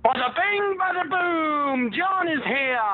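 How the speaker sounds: big, high-pitched New York announcement; hammed-up New York wise-guy entrance; New York accent. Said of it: "That was my best New York accent".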